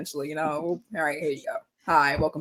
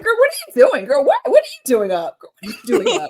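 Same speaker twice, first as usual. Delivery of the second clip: high mock girl talk; 11 semitones higher than usual.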